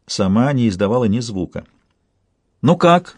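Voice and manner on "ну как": insistent. A narrator's reading. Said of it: "настойчиво спросила Двалия".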